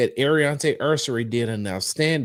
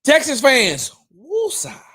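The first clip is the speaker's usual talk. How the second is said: mock calming; 11 semitones higher, 6 dB louder, slower than usual. Real, not acted. Calming angry fans.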